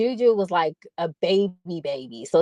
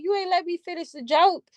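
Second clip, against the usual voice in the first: retold mama's complaint; 9 semitones higher than usual. Mama to her laughing child who cut off the joke, mock complaint. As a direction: imitate a put-out mother in a higher voice. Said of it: "She's like".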